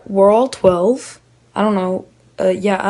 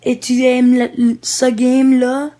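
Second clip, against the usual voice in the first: imitating a fast French speaker, raised pitch; higher-pitched mock of quick French chatter; rapid French; 4 semitones higher, 3 dB louder than usual. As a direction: rattle off the French question. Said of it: "Like, really fast or something".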